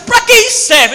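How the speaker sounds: put-on high sulky kid voice; whiny boy. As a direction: protest like a fed-up kid. Boy complaining again.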